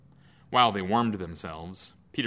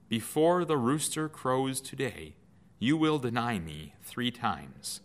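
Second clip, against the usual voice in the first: solemn prophecy; 3 semitones higher than usual. Acted. Lord's remembered prophecy.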